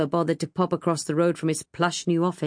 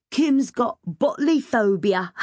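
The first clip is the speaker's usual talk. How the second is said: put-on slow, chortling boy's tease; 6 semitones higher, slower than usual. A narrator's reading. George mocking the girl up the ladder, chortling. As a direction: tease with chuckles round the words. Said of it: "George chortled".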